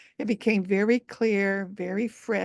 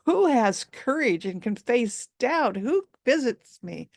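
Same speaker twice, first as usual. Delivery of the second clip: startled dragon; 4 semitones higher than usual. Acted. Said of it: "he was startled".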